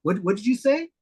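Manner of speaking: a hint of a Cuban-accented shop owner asking him to repeat. Shop owner in a light Cuban accent asking him to repeat. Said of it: "In his Cuban accent".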